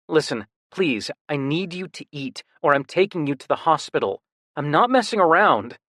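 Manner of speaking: a brother threatening the hospital out of worry; firm worried brother. Acted. Brother voiced in story.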